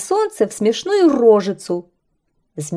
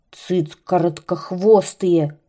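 kite grumbling; slower than usual. Acted. Kite grumbles at the mocking birds, slow and sullen. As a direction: growl it out slowly. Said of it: "ворчал змей".

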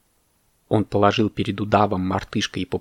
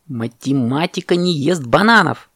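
indignant higher parrot cry; parrot shouting; 4 semitones higher than usual. Acted. Parrot shouts at the monkey over bananas, indignant cry. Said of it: "крикнул попугай".

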